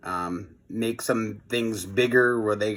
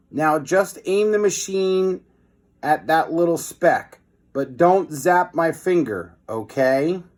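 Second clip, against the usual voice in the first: put-on excited kid; 6 semitones higher than usual. Excited boy spotting tiny hero.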